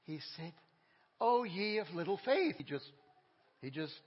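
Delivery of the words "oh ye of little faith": mild frustrated rebuke. Retold or imitated. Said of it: "you could see he was frustrated".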